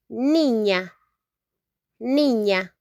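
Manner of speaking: niña, nee-nya, repeated clearly; Spanish niña. Shown as a demonstration. Teacher repeating a Spanish word for learners, clear model. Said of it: "we say".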